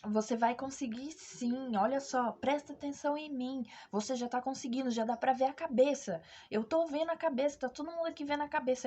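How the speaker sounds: retold coaching, pressing for her attention; urgent encouragement. Nurse to labouring woman as the head appears, insistent encouragement.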